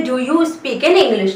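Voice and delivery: very slow, word by word teacher model; slow model phrase. Shown as a demonstration. Teacher spelling out a question for Hindi learners, very slow. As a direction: stretch every word so learners can follow. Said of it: "इसे English में कैसे बोलेंगे".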